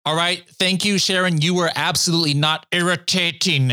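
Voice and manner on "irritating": "irritating" in a teasing South African imitation; light South African put-on; mock South African accent. Host mimics guest's South African demo.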